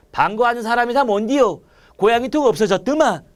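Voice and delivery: reading in a light Gyeongsang accent; a touch of Gyeongsang dialect. Shown as a demonstration. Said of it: "사투리잖아". (가벼운 경상도 사투리로 읽기)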